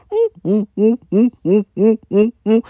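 loud, repeated closed-mouth hoots; insistent pigeon noise in even bursts; pigeon imitation. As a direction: hum short monkey-like pigeon calls. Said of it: "this fucking pigeon sounds like a fucking monkey".

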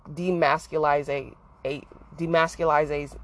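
"demasculize-" broken off unfinished twice; stumbling over the word. Real, not acted. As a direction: trip over "demasculize-", cut it short. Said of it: "bleh, I can't say it".

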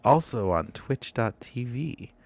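wet, lisping plug read; spitty sibilants. Pretend. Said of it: "talk with a lot of spit in my mouth".

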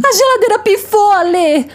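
high, shrill exasperated cry; exasperated outburst. Acted. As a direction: blurt it out in exasperation.

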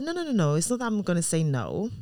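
high-pitched protest, then easing down; hasty reassurance. Retold or imitated. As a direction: quickly reassure a worried child, retold. Mother reassures son who expects refusal.

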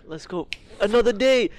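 high excited mock dad; imitating the buzzing father. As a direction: hype it up like the eager dad. Dad voiced in retold story.

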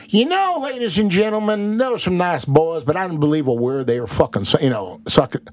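high announcing host voice; a hint of showman addressing audience; imitating TV host to audience; mock Doctor Phil. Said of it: "He's telling the audience".

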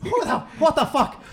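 outraged stage-Irish patient; mock Irish accent. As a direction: complain in a hammed-up Irish accent.

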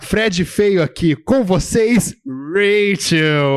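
slow, drawn-out announcer read; donation read-out voice. Retold or imitated. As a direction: read the donor's message slowly, like an emcee. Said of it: "a gente recebeu aqui um Pix do".

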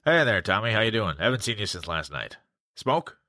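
pinched nose voice; nose held. Shown as a demonstration. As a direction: talk while holding your nose. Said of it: "holding your nose as you speak".

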